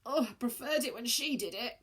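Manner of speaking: weak croak. Acted. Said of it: "croaked Elliot".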